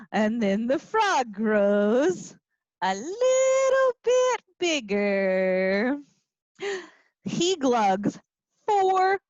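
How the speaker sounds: animated storybook reading; reading to children. A narrator's reading. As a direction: read it like a lively story time. Teacher reading picture book aloud.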